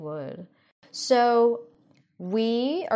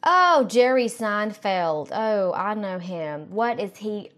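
Republican aunt; 2 semitones higher than usual. Acted. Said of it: "Republican aunt".

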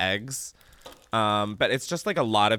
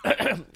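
rough smoker's throat clear; 5 semitones higher than usual. Real, not acted. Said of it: "I just sounded like a chain smoker".

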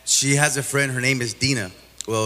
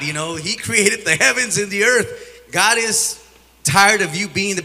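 preacher's exhortation, pitched up; higher, emphatic preaching; retold exhortation; 3 semitones higher than usual. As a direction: re-enact urging her to believe, in a raised preaching voice. Retelling his urgent exhortation to her.

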